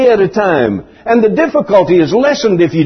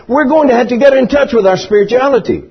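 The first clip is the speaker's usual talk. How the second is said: ordinary talk, nothing marked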